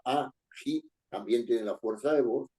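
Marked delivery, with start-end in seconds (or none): 0.0-0.9 ají split as a, jí; syllable by syllable. Shown as a demonstration. Teacher showing where ají is stressed, syllables apart. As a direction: pronounce ají in two separate syllables. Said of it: "en la última sílaba".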